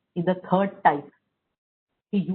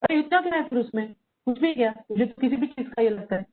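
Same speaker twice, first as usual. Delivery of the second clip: disapproving parent; 3 semitones higher, faster than usual. Retold or imitated. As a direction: belittle the child's upset. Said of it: "disapproving parents क्या बोलेंगे". (नापसंदगी जताती माँ की आवाज़)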